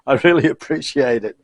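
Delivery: hiccuping and laughing; hiccups. Real, not acted. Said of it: "I've got the hiccups".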